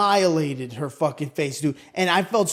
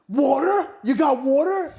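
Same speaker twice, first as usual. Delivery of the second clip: mocking eager EMT; 6 semitones higher than usual. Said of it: "he's like".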